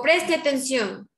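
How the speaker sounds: slow, firm "Preste atención"; firm command. Shown as a demonstration. Teacher ordering the class to pay attention, slow and firm. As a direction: call the class to attention slowly. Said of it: "Estoy dando una orden".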